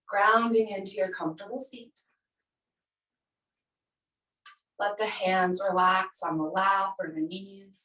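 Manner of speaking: calm, measured yoga-teacher guidance; unhurried meditation cueing with space between phrases; guided relaxation. Acted. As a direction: lead them gently into the body, leaving long pauses. Leads breath and body relaxation.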